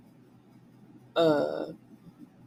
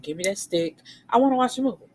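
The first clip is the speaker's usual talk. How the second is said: demanding yell; 5 semitones higher, 3 dB louder, much faster than usual. Retold or imitated. Demanding the game controller.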